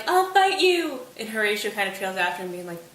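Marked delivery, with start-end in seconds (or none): 0.1-1.1 "I'll fight you" yelled much higher and louder, slow and drawn out; yelling. Retold or imitated. Hamlet dragged away from the grave, yelling at Laertes. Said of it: "still yelling".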